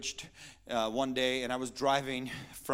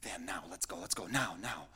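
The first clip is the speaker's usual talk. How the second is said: enemy rushing you; 8 semitones lower, 8 dB quieter than usual. Acted. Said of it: "here's what the enemy does".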